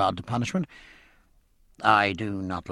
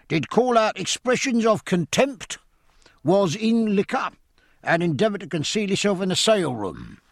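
a master-at-arms reading out charges; hoarse official; 8 semitones higher than usual. Acted. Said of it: "speaking hoarse and official".

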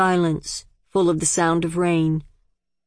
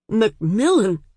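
agonized; 4 semitones higher than usual. A narrator's reading. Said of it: "the father said in agony".

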